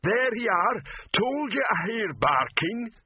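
lumbering troll. A narrator's reading. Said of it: "voice of Rock".

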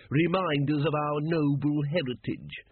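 slow, proud, put-on flag-bearer voice; proudly. Flag bearer boasts to the watchmen, slow and proud. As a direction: puff up with civic pride. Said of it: "said the man proudly".

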